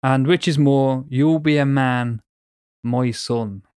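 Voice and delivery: put-on slow verse in a dodgy Irish accent; bad Irish accent. Reading the poem's ending to co-host, bad Irish accent. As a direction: attempt an Irish lilt, drawn out. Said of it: "a bad Irish one".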